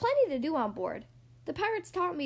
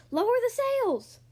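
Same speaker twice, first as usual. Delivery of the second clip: high, loud, slow captain's shout; drawn-out pirate command; shouted order; 9 semitones higher, 5 dB louder than usual. A narrator's reading. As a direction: call it across the deck. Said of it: "Braidbeard shouted".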